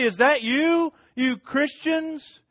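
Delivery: high, loud mocking accusation; accusing crowd. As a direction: point the finger at the church, taunting. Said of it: "they're gonna say".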